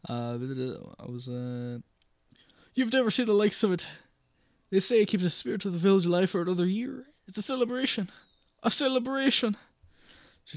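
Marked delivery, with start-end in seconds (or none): 2.8-9.6 high, fast Irish enthusing; Irish landlady. Acted. May praising the festival to the guest, Irish lilt. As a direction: rave about it in Irish. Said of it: "let me go full Irish".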